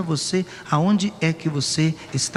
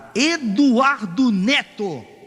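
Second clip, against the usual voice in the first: high, bellowing, put-on yell; 7 semitones higher, 4 dB louder than usual. A father retells yelling his son's name; retelling a yell. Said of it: "Eu berrei de lá".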